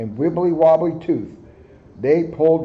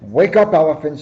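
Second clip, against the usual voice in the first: louder wake-up call; 5 dB louder than usual. Acted. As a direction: call him awake across the room. Moose calling to wake Elephant.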